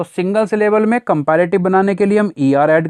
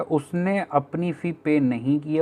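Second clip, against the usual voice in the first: slow rephrasing; 7 dB quieter, slower than usual. Shown as a demonstration. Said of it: "या फिर कुछ ऐसा कहना चाहता है".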